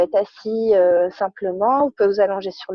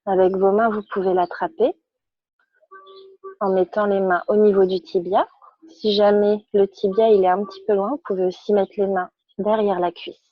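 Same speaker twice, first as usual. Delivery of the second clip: calm, measured yoga-class instruction; unhurried guidance with pauses between phrases; guided relaxation; 3 semitones lower than usual. Real, not acted. Yoga teacher guides students lying on their backs, calm guided relaxation.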